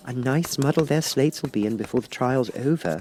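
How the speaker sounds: put-on high, light girlish voice; lightly high Alice wishing. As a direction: voice young Alice, a little impatient. Alice's voice in read story.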